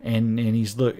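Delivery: ordinary talk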